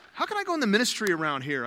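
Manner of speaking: mildly fired-up, quick question; Ben. Retold or imitated. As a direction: imitate an eager newcomer asking fast. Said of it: "he was just fired up".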